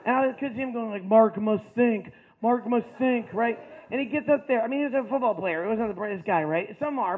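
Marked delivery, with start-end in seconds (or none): 1.0-2.1 slow, halting dumb-guy inner voice; dim jock thinking. Pretend. Narrator imagines Mark's slow brain thinking, slowly. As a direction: drag it out like the cogs are turning.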